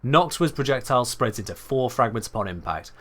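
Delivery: measured, brisk video-guide read; reading a script. Shown as a demonstration. Streamer demos his scripted video voice for chat. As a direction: read it like a polished tutorial voiceover. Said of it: "let's give myself something to read".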